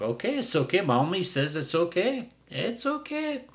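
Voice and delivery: mock mommy coo; cooing owner. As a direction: soothe the dog, fading away. Mocking the owner again.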